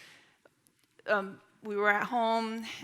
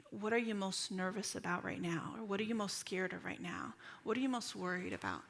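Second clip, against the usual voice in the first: soft, caring questions; gentle questioning; 6 dB quieter than usual. Acted. Counselor inviting a nervous person to name fears, gentle questioning. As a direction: ask quietly, with gentle interest.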